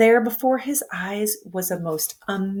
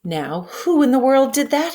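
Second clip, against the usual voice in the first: raised, loud demanding call; exclaimed; 5 semitones higher, 4 dB louder than usual. A narrator's reading. Night watchman hears a crash in the dark store, calls out loudly. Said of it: "he exclaimed".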